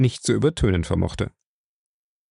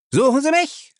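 lauter Ausbruch. Acted. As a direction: fling the question at him, much higher. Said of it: "fragte er laut". (laut und schrill gefragt)

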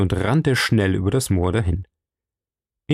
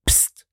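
hissed shush. A narrator's reading. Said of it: "zischte er".

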